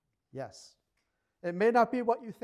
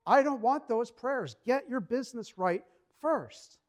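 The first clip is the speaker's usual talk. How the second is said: slow, louder and higher divine rebuke; stern rebuke; 4 semitones higher, 4 dB louder than usual. Retold or imitated. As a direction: lay down God's demand firmly and slowly. God's stern rebuke in preaching.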